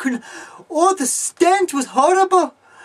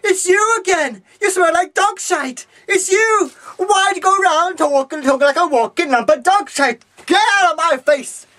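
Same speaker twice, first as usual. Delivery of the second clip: higher, indignant yelling; accusing shout; 4 semitones higher than usual. Acted. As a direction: hurl the accusation at her.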